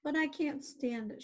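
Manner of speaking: mild anguished outcry; shouting. Acted. Wilbur refusing to accept his friend's death, mild shout. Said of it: "shouted Wilbur".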